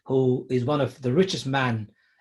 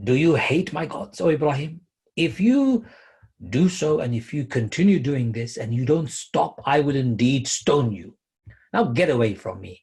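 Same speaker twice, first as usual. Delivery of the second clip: angry father; 2 semitones higher, 3 dB louder than usual. Acted. Father threatening his son Ibrahim.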